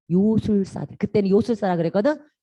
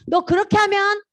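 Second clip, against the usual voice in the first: lightly voiced scolding mom, raised pitch; high-pitched parental threat, mildly hammed-up; mother's warning; 9 semitones higher, 3 dB louder than usual. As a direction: warn like a fed-up mother. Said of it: "엄마의 경고".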